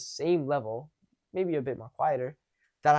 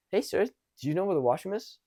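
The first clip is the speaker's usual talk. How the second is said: raised, more confident ask; a bit louder; 5 semitones higher than usual. Shown as a demonstration. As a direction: speak up a little. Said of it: "I said it a bit louder".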